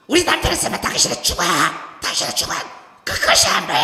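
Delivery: a loud, fast threatening rant; angry woman shouting. Retold or imitated. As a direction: threaten him through the door. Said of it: "여자가 소리를 얼마나 지르죠".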